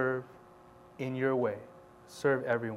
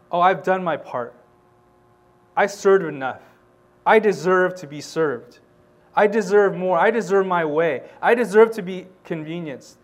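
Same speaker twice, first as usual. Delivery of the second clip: louder, whiny I deserve; mock the self-centred believer; mock entitled complaint; 3 semitones higher, 5 dB louder than usual. Preacher mocking entitled churchgoers, louder and whiny.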